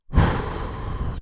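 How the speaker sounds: slow, voiceless sigh; big sigh to let frustration go; long calming exhale. Real, not acted. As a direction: blow out a deep breath to settle yourself. Calming himself with a deep breath.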